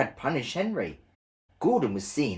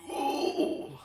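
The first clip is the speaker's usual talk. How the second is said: whispered oh; 5 dB quieter than usual. Acted. Gordon weakly sighs.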